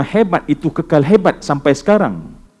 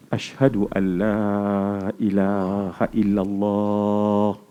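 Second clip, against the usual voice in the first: solemn shahada; 6 semitones lower, 6 dB quieter, much slower than usual. Acted. Umar's shahada, slow and chanted.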